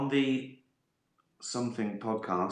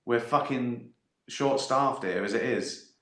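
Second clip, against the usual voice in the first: slow, drawn-out mock scolding; aggrieved liver; slower than usual. Liver complaining to the brain about drinking, mock scolding. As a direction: lightly play a fed-up worker, dragging the insult out. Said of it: "your liver's gonna go".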